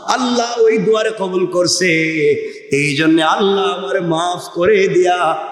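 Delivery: resolve the story in a preacher's chant; rhythmic waz cadence; intoned sermon conclusion. Acted.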